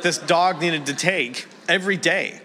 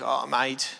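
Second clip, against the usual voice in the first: put-on Australian accent; 2 semitones lower, 4 dB quieter than usual. Father-in-law phones his son-in-law, imitated Australian accent. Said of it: "My wife is Australian".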